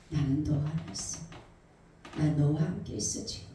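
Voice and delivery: lightly voiced, low reassuring Lord; hint of a calm divine voice. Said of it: "주님의 음성이".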